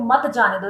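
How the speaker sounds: मत जाने दो as its own phrase after a pause; pause before मत जाने दो. Shown as a demonstration. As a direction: break before मत, then मत जाने दो together. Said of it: "यहाँ पर अगर पॉज लेते हैं फिर बोलते हैं". (मत से पहले ठहराव)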